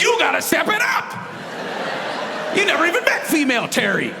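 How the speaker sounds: high shouted telling-off; hammed-up shouted challenge; mock scolding shout. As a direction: yell at her to step it up. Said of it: "I was like".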